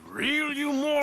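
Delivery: a hunter furious at a careless showman; furious insult. Acted. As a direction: let the anger break on the last word.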